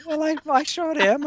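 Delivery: put-on high Irish leprechaun accent. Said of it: "you sound like a leprechaun".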